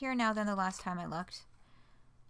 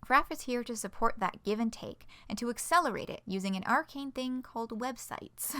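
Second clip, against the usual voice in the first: animated, earnest closing of a news post; rally the readers with a scripted sign-off; announcement read-aloud; 2 semitones higher than usual. Acted. Spokesperson thanking the fan community, announcement read-aloud.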